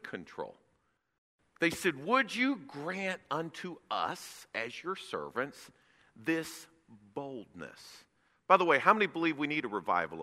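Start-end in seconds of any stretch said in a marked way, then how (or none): 2.1-8.0 hushed prayer. Acted. Reading the apostles' prayer.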